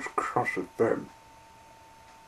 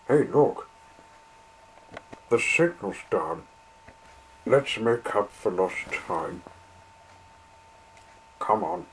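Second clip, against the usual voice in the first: eager. Acted. Engine eager to go.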